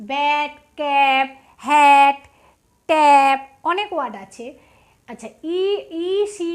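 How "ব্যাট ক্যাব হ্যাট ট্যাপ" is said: ব্যাট, ক্যাব, হ্যাট, ট্যাপ each spoken slowly and loudly with short a; slow model words. Shown as a demonstration. Teacher drills short a words for pupils, slow and loud. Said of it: "আরও অনেক word আছে".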